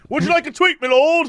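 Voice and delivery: high, fawning offer; bow and offer it sweetly; obsequious salesman. Pretend.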